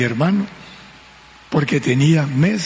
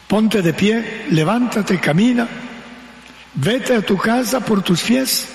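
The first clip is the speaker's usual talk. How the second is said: rising encouragement; 6 semitones higher than usual. Retold or imitated. Jesus urging the sinner up.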